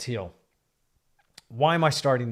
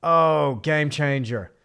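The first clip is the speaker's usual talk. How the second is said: imitating an excited painter; 5 dB louder, slower than usual. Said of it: "You're like".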